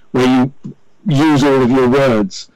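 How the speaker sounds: carefully pronounced radio English; received English. Shown as a demonstration. Guest describing his radio accent, in carefully pronounced English. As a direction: give each word its full, careful pronunciation. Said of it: "the pronounced English".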